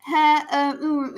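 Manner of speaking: mimicking broken bits of words; fragmented reading noises. Shown as a demonstration. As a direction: demonstrate stumbling over word fragments. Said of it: "you'll hear me going like".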